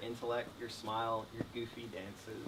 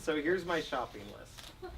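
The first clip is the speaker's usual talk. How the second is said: laughing; 4 semitones higher, slower than usual. Real, not acted. Laughing after own joke in vows.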